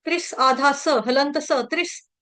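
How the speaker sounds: त्रिस ending in a bare s, no vowel after; visarga as half s. Shown as a demonstration. Teacher demonstrating visarga before स, त्रिस with half s. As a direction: close त्रिस on a short hissed half स. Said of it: "विसर्ग का उच्चारण होगा त्रिस".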